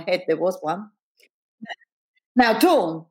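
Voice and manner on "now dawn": mildly raised teacher's voice, a bit higher; understated scolding; attempt at raised voice. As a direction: try to assert authority over a pupil. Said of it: "an attempt at raising her voice".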